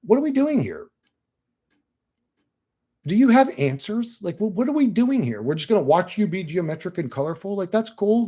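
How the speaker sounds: asking the entity, baffled and high; mock-baffled demand for answers; incredulous questioning. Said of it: "I was like".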